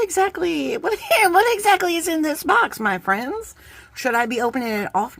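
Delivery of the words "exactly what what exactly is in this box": higher, laughing disbelief; real amused laugh. Real, not acted. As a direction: giggle through the question. Puzzled by a box.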